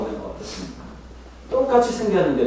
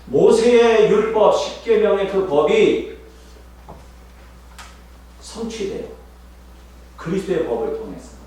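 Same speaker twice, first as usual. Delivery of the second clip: preaching climax; 7 semitones higher, 5 dB louder than usual. Real, not acted. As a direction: build it up, then release.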